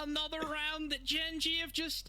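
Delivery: high, slow, stretched-out caster lament; incredulous play-by-play. Real, not acted. Caster on Gen G throwing another round, high drawn-out dismay. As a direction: draw out the disbelief, pitched high.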